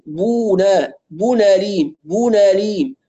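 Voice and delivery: بونا with a full, rounded, held u; clear damma. Shown as a demonstration. Teacher drills the correction for students, clear damma. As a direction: spell out the u clearly in بونا ليم. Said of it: "الضمة مش واضحة".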